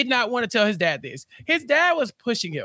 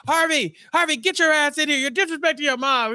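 mock angry dad yell; 6 semitones higher than usual. Dad voiced yelling at Harvey.

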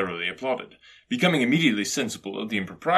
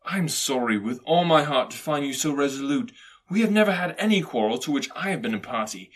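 higher, sincere voice growing hearty; earnest cheerful nephew; 4 semitones higher, 6 dB louder than usual. A narrator's reading. Nephew takes leave of stubborn uncle, earnest and cheerful. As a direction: speak warmly, ending on a loud greeting.

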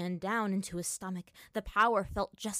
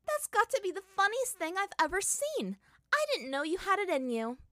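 laughing; 12 semitones higher, 5 dB louder than usual. Acted. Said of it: "Azula roared with laughter".

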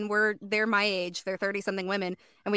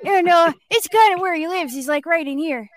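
put-on lightly pitched-up boy. Shown as a demonstration. Showing castmates where the character lives, boy voice. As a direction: chat as a young boy. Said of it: "That is the boy voice".

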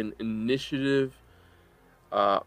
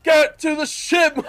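high-pitched urgent shout, louder on the repeat; captain calling out; 8 dB louder than usual. Acted. Game master voices the captain ordering everyone to the ship, shouting. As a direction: yell the order far up above your usual pitch. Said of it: "Captain Reveda calls out".

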